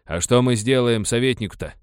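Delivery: doubtful. A narrator's reading. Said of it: "усомнился Друль".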